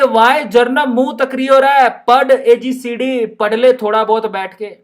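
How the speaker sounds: mock scolding in a Rajasthani lilt; Rajasthani teacher. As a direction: play the teacher telling Jarnab off in Rajasthani style. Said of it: "madam कह रही है".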